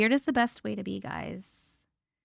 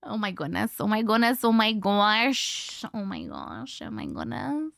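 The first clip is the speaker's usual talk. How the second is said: looping oh my goodness with drawn-out, rising ends; echolalia stim. Shown as a demonstration. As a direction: let the phrase run on as a habit, stretching the last one. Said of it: "my Echoalia thing".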